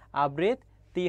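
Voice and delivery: "আবৃত্তি" slowly split as abrit, then ti; syllable-split pronunciation. Shown as a demonstration. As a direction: pause inside "আবৃত্তি" before the final ti. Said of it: "উচ্চারণ হবে". ("আবৃত্তি" ভেঙে ধীরে উচ্চারণ: আবৃত্-তি)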